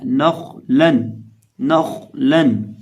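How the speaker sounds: नखलन slow, with a thick throaty ख and light न, ल; heavy kha. Shown as a demonstration. Teacher modelling the rule, slow नखलन with heavy ख. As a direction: thicken and hold the ख in नखलन, keep लन thin. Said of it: "खौ को मोटा करके पढ़ना है".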